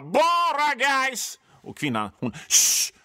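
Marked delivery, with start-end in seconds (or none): 0.0-1.4 high, long-drawn football yell; imitating a man's drawn-out chant; sudden shout. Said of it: "börjar mannen från ingenstans ropa". 2.5-2.9 sharp, loud "shh"; long hissed shush, acted out; imitated shush. Woman hushes the shouting man.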